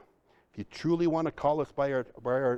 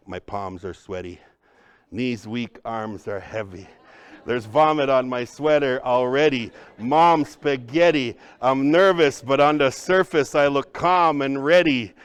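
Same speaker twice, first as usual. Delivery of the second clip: a rapper's lines, loud, spoken more than sung; mock the nervous rapper, loud; 5 dB louder than usual.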